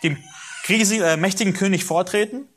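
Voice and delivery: high, anxious objection; pleading protest. Retold or imitated. Moses objects to God, high pleading protest. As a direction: plead your way out of the task.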